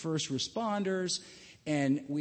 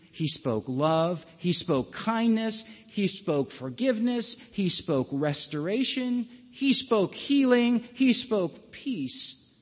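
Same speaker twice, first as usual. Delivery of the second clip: preaching build; slower than usual. Acted.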